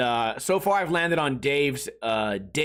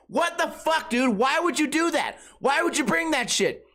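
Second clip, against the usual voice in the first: mock outrage; 10 semitones higher than usual. Imagined victim of hot wings.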